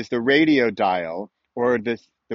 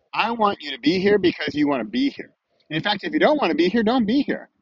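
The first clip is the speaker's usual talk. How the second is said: high emphatic; 9 semitones higher than usual. Real, not acted. Stressing free choice.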